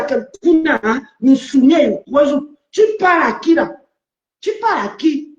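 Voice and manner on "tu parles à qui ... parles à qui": higher, fast indignant demand; angry challenge. Real, not acted. Confronting the woman who insulted her, angry and higher. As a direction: snap the question back at her. Angry quarrel on live panel.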